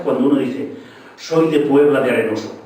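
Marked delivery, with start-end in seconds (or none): 1.2-2.6 solemn. Shown as a demonstration. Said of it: "suena sonoro y solemne".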